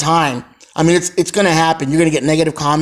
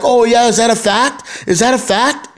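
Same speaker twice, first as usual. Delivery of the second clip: mock indignant challenge, pitched higher; retold anger; 5 semitones higher than usual. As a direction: imitate a man getting mad, higher-pitched. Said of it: "the guy gets mad".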